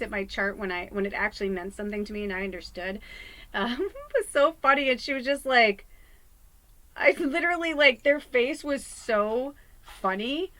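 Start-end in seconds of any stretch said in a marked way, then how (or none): 3.5-10.5 laughing. Real, not acted. Laughing retelling funny reading.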